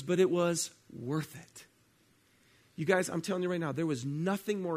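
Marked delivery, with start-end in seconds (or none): 0.0-1.6 slow earnest admission; sincere. Retold or imitated. Contestant sincerely telling Jillian it was worth it. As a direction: settle down and mean it slowly. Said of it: "She goes".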